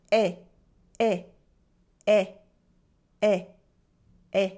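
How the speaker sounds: Eh said with an open mouth, like "bed"; open è sound. Shown as a demonstration. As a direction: demo of the open French è. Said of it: "You pronounce it with a more open mouth".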